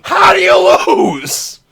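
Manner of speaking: high, loud disbelieving yell; frustrated shout. Real, not acted. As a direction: yell at the sky. Raging at tic-tac-toe loss.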